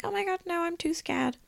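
high, hushed mock-scared squeak; timid sober self. Sober self refusing the photographer's dare, timid and squeaky. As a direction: act too scared, small thin high voice. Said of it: "sober me would have been like".

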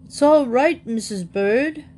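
high, urgent little character voice; gasped reassurance. A narrator's reading. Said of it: "gasped Paddington".

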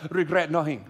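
lightly put-on Latino accent. Preacher imagining the tattooed guy as Latino, mock Latino accent. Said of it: "if it was Latino".

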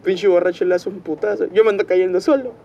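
put-on drunk voice. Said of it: "él había dijo de que".

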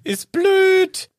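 high squeaky elf voice; house-elf voice. Pretend. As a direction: play a squeaky little elf. Creature role-play with Voldemort.

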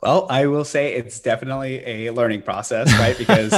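speaking through a laugh. Real, not acted. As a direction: laugh while you talk. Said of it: "I hear the smile in your voice".

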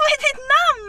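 high-pitched call across the street; shouted question. Retold or imitated. Host re-enacts asking the girl's name, shouting. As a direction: call out to a stranger.

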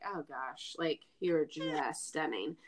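mock husband. Husband voiced sarcastically.

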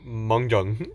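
Mahjong said as "mong-jong"; mock mispronunciation. Cohost guessing the host's botched game name, Mahjong as "mong-jong". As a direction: give Mahjong an "ng" in both syllables, "mong-jong". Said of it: "just gonna say it like".

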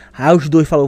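ordinary delivery

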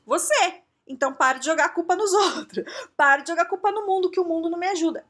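alto e mais agudo, cobrando com firmeza; bronca enfática. Real, not acted. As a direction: chama a atenção do ouvinte com força, rindo no meio. Bronca direta no público. (bronca alta para quem culpa o mundo)

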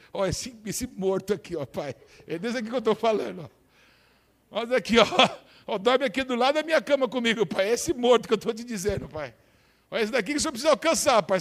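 fast, insistent prayer with a laugh; praying to the Father. Pretend. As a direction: point out the lost to God, urgently. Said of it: "Mostra pra mim".

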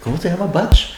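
put-on playful Chicano accent, high and laughing. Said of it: "Porque estoy hablando como chicano".

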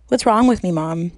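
drowsy slurred words; slurred speech. Acted. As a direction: slur it like you're drugged. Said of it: "My voice slurs".

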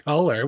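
"Color" with the final R sounded; American "Color". Shown as a demonstration. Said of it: "Say color".

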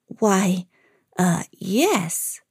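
hesitant, halting reply; mild stammer. Acted. Minnie answers the strange grandmother, mildly stammering. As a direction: falter slightly, unsure who this is. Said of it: "Little Red Riding Minnie stammered".

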